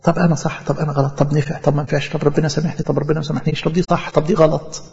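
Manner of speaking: soft, nervous self-questioning murmur; softly going round in circles, doubting every step; anxious fretting. Retold or imitated. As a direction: voice the worried whisper of a scrupulous conscience. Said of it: "ضميره موسوس كده".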